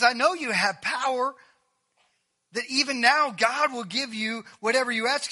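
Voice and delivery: acted insistence, high-pitched; insistent reproach. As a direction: press the point with rising frustration. Martha pressing Jesus with reproach.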